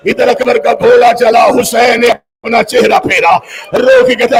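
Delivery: slow grieving declamation, breaking into shouts; mourner's chanting lament; lamenting recitation. Acted. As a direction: wail the father's farewell to the crowd. Mourning recitation of Akbar's death.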